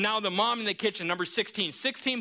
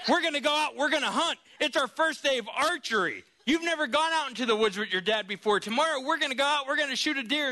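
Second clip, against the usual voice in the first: excited dad; 5 semitones higher than usual. Retold or imitated. Dad announcing hunting trip.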